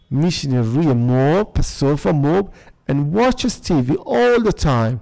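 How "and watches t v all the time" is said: slow reading aloud. Shown as a demonstration. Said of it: "اینجا گفته چی؟".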